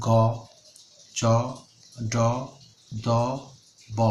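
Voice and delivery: গ চ ড দ ব said one by one, light and unaspirated; unaspirated consonants. Shown as a demonstration. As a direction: sound each letter crisply without a puff of breath. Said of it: "উচ্চারণ করি". (অল্পপ্রাণ উচ্চারণ)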